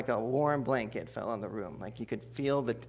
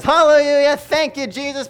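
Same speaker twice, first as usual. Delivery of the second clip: much higher and louder, exclaiming hallelujah; joyful praise; 14 semitones higher, 13 dB louder than usual. Retold or imitated. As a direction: throw the praise up in glee. Grandma praising God joyfully.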